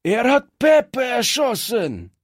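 hoch und laut empört schreien; aufgebrachter Schrei. Acted. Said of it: "schrie einer der Strolche". (ein Strolch schreit empört und laut)

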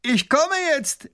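high, loud, slow robber. Acted. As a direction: announce it grandly. Robber announces.

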